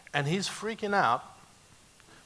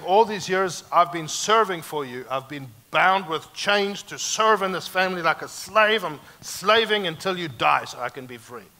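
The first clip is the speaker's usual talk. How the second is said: put-on raised, indignant older son pouring out his grievance; louder, hurt and resentful, as the son; the son's bitter complaint; 3 semitones higher, 6 dB louder than usual. Older son complaining to his father, indignant and raised. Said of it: "He's saying".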